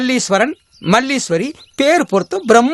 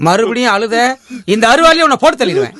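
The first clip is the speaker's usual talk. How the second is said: angry threat; 2 semitones higher than usual. Acted. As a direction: rattle off the threat, raised and hot. Matchmaker threatens the crying man back.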